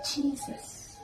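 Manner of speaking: breathless high whispered Jesus; stunned gasp. Retold or imitated. Alone in his office, she gasps in shock. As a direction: gasp the name out in shock, barely voiced.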